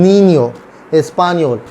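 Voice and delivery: "नीनियो" and "स्पानियोल" with n gliding to y; ny sound. Shown as a demonstration. Teacher giving examples of the rule, ny sound. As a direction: model the ny in "नीनियो", then "स्पानियोल". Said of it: "एन और वाई की sound".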